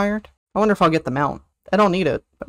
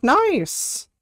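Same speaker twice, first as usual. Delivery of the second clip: excited squeak; 10 semitones higher than usual. Real, not acted. Reacting to chat.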